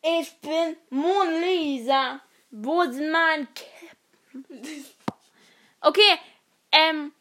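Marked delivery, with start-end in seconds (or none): 0.0-4.8 slow character voice. Acted. Voicing Mona Lisa character.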